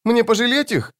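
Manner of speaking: put-on high, childlike questioning; child-voiced demon. A narrator's reading. Demon asks the wizard about mercy, high child voice. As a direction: ask it as an eerie little-child demon.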